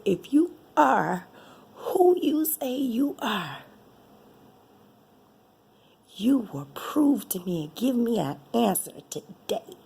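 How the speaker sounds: 1 demanding prayer. Retold or imitated. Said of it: "And I got angry with God".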